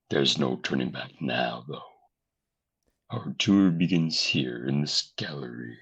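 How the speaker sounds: spooky ghost host, measured pace; slow theatrical villain menace. Acted. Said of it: "Your cadence is so similar to the actual voice".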